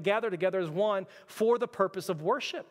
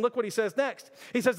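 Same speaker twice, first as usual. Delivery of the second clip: ordinary talk, nothing marked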